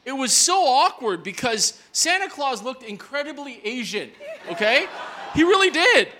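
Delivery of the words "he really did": emphatic. Real, not acted. Laughing punchline.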